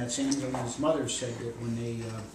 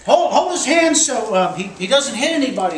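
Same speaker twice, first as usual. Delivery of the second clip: loud, raised bystander's command; urgent retold orders; 9 semitones higher, 9 dB louder than usual. Storyteller voices bystanders holding the man's hands, urgent loud orders. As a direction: order helpers about in mock alarm.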